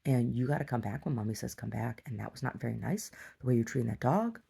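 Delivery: even, restrained reproach; calm talking-to. Retold or imitated. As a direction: explain it calmly, like a patient mother. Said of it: "I just talked to him real calmly".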